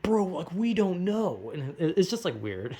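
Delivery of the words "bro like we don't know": stoner shrug. Retold or imitated. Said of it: "And we're like".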